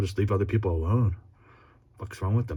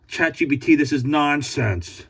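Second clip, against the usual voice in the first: exasperated; 5 semitones higher than usual. Real, not acted.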